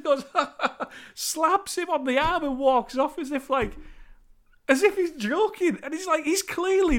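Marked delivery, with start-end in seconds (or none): 0.3-0.8 mock dismissive chuckle, pitched up; imitated chef's laugh. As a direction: fake a laugh that brushes it off. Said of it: "That's what the fucking chef does".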